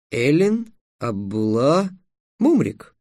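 slow questioning repeat, pitch jumping on "Мумрик"; checking the name. A narrator's reading. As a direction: repeat "Эллин Абулла" slowly, then lift "Мумрик". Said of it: "уточнил Трикс".

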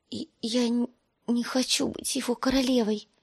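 high, small and timid; tiny frightened girl's voice; thin little voice. Acted. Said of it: "тоненьким голоском".

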